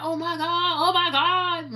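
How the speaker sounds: playing a thrilled new YouTuber; excited. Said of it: "you're so excited".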